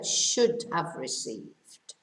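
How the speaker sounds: should have received said slowly and low; teacher repeating the key phrase; slow recap. Shown as a demonstration.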